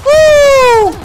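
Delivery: high, loud victory whoop; shrieking woo of triumph; hype yell. Real, not acted. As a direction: let out a big celebratory woo.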